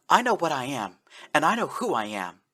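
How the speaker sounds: firm and sure of herself; strong tone. Acted. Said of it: "said in a strong tone".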